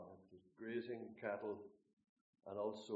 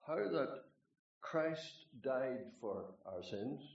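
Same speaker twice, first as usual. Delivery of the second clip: scripture reading. Acted. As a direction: declaim the verses with weight. Reads Corinthians passage aloud.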